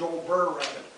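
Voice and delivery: Brer said as one short syllable instead of brother. Shown as a demonstration. Storyteller to children explaining the old men's word, Brer said short. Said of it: "didn't always say brother quite right".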